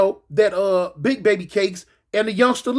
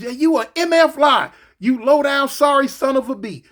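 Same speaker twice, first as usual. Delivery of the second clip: mock cussing; 5 semitones higher than usual. Baby Cakes cussing.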